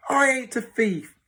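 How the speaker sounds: high, loud outburst; indignant Cockney shout. Acted. Boy denying he is a thief, shouting. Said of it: "shouted George".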